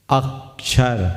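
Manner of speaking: अक्षर drawn out slowly, even weight on both syllables; slow flat अक्षर; wrong stress on अक्षर. Shown as a demonstration. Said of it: "अक्षर बोलते हैं क्या?".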